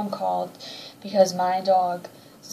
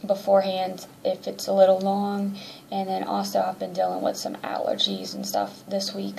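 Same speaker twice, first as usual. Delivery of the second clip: congested. Real, not acted. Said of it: "if I sound a little congested or nasally".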